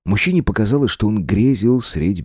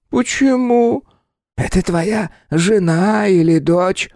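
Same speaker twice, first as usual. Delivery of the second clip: slow, high, eerie hungry spirit; 13 semitones higher, slower than usual. Acted. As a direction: savor each word greedily. Spirit probes.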